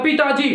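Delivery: पिताजी said with added force; demonstrated emphasis on पिताजी; stress on पिताजी. Shown as a demonstration. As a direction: put the weight on पिताजी. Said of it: "तब बल लगाए ना".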